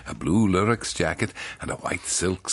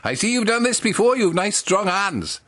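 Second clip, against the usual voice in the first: Welsh baker's wife; 13 semitones higher, 5 dB louder than usual. Acted. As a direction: draw out the compliment, pitched up. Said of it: "says Missus Barnaby".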